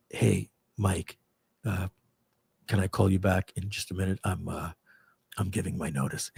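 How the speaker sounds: low, hesitant, hushed phone voice; Simon. Retold or imitated. Employee caught giving notice, low halting murmur on the phone. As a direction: answer haltingly, keeping the voice down. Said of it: "he goes".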